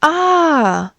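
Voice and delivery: high, drawn-out "ah"; exclamation of realization. Acted. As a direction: let out a high "ah" of discovery. Shown the devices in the house.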